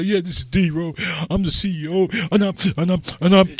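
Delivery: mock hype. Caller showing what looking for hype sounds like, mock hype. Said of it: "If I'm looking hype, I'll come and say".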